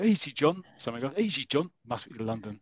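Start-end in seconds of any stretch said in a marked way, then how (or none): 0.0-0.6 put-on a light London accent, raised. London bloke holding back a mate, light London accent. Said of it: "so my London accent there". 1.2-1.7 put-on a light London accent, raised. London bloke holding back a mate, light London accent. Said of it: "so my London accent there".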